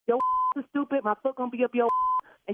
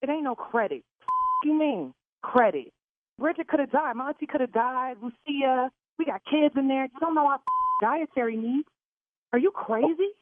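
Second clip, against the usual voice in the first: angry; 3 semitones higher than usual. Real, not acted. Furious rant about the allergies.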